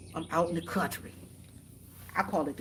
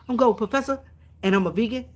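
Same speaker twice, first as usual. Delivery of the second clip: Gold Professor impression; 3 semitones higher, 5 dB louder, faster than usual. Streamer retries Gold Professor's intro to check she did it right, hammed-up velvety voice. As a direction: put more shine into the announcer voice. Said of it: "that's my velvety voice".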